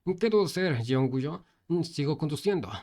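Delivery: loud, high frantic call; frantic shout. Acted. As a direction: shout for orders while riding. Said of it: "el conductor le gritó".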